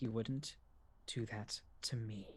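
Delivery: very quiet, slow, hushed, said under the breath. Speaking in character after a failed urge to flee: said very quietly. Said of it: "very quietly".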